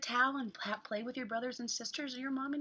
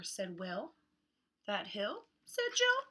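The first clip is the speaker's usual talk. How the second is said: hot; much slower than usual. Acted. Reads picture book to children.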